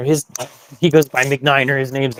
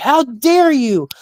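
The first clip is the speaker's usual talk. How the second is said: high, slow mock outrage, indignant. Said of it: "He's like".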